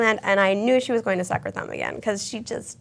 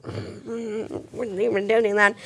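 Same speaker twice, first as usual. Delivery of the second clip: mock sad; much slower than usual. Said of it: "we're all like this".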